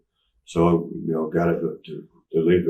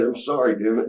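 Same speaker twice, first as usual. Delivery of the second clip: higher, mildly irritated retold apology; exasperated sorry, lightly acted; pissed-off apology; 5 semitones higher than usual. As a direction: apologize with a touch of temper. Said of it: "I started getting pissed off again".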